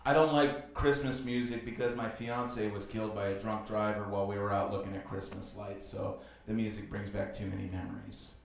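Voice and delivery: low, soft feigned grief; mock-solemn confession. Man fakes tragedy to mess with date, solemnly. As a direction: lay on a quiet sad story.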